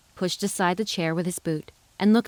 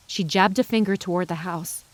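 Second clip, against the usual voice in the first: usual speaking voice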